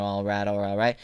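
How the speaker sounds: smooth Southern voice, lightly done; a hint of a smooth, easy charmer; McConaughey. Host explaining the accent women like, lightly imitated smooth voice. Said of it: "you got that McConaughey voice where everything's real smooth".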